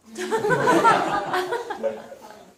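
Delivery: loud high laugh; burst of laughter. Real, not acted. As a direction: break into real laughter. Laughs at own mix-up.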